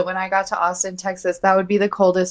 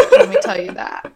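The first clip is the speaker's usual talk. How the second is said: high laughing remark; 4 dB louder than usual. Real, not acted. Friend agreeing about the weather, laughing high.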